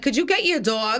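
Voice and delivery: put-on Jersey-accented "dog"; demonstrating one's own Jersey accent. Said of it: "Why do you say dog like that?".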